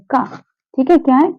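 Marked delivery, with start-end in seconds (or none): 0.1-0.2 का with an ordinary k from the throat; plain k sound. Shown as a demonstration. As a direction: say का as plain Hindi k, no dot. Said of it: "सुनिए ध्यान से".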